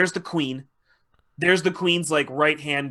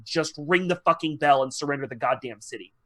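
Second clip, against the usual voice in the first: exasperated retold plea, at a normal pitch; understated, fed-up plea; retold begging; 3 dB quieter than usual. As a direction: beg wearily, barely acting it out. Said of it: "are begging the queen".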